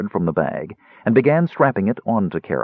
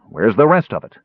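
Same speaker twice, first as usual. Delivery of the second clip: demanding; 2 semitones higher, 3 dB louder than usual. A narrator's reading. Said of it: "he demanded".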